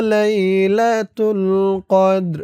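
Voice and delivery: drawn-out Quranic chant; teacher modelling the verse for the pupil; slow recitation. Shown as a demonstration. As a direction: recite it slowly with long vowels. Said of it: "এই যে এটার মতোই উচ্চারণ হবে".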